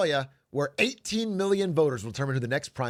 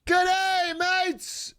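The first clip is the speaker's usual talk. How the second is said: high, hammed-up Aussie greeting; exaggerated Australian accent, pitched high; 13 semitones higher, much slower than usual. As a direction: holler it as a mock Australian. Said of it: "I hit the accent so well".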